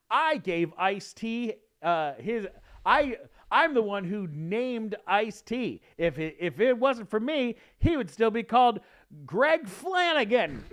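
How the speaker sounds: loud, high-pitched indignant bragging; pompous big shot. Retold or imitated. Actor boasting at an audition, mock-outraged and pompous. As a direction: proclaim it with huge self-importance.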